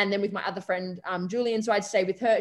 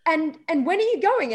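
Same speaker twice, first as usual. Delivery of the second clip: high, loud, fretful mum voice, imitating; panicked mum; 6 semitones higher, 3 dB louder, slower than usual. Daughter imitating her panicking mum on the phone, high and loud. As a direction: mimic a mother's anxious rush of questions. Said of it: "I could just hear the panic in her voice".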